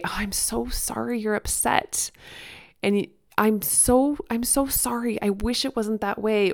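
soft sad whisper with a frowning face; sad empathy. Shown as a demonstration. Parent comforting an upset child, soft sad whisper. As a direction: whisper it like you're sorry for them. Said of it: "I'm gonna kinda make a, a frown and ... just sad eyes".

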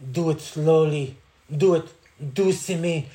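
a lightly hammed-up seducer on a tape; mock seductive tape voice. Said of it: "he's like".

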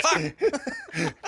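high, loud curse breaking into laughter; laughing curse. Real, not acted. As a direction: crack up mid-word. Laughs retelling the stop.

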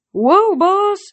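high, loud startled yelp; startled cry. Acted. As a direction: jump back in alarm. Startled pegasus backs off.

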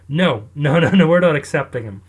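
a loud, fast, mock-stern no, no, no; mock firm refusal. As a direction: slam the door on him, fast and loud. Countries flatly refusing Alfred.

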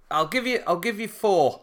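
high, hesitant counter-offer; mock timid bargaining; nervous offer. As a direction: squeak out a lowball offer.

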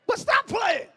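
loud high burst; shout. Real, not acted. Preacher shouting at the congregation to stop playing. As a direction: snap it out loud. Sudden burst after amen.

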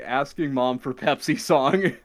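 slow headline read of the words; read as post title. Shown as a demonstration. Host reading a post title, slow and deadpan. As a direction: announce it like a thread title. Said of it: "You said that like it was the name of a post".

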